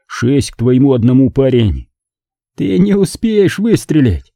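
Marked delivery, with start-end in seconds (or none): 2.5-4.3 slow, higher, angry warning; Larry snaps back at the narrator, angry; angry exclamation. A narrator's reading. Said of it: "сердито воскликнул Ларри".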